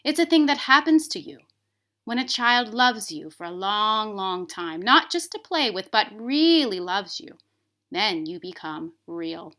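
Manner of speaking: a hint of a kindly old horse; wise old Skin Horse. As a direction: explain patiently like a wise old toy. Skin Horse explains to rabbit.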